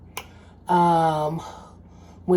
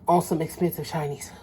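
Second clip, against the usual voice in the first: unvoiced aside, softer; whisper; 5 dB quieter, faster than usual. Real, not acted. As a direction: whisper it like a guilty secret. Aside under breath.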